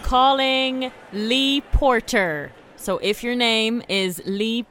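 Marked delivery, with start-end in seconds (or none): 0.0-2.5 booming prize announcer. Acted. Radio prize call-out.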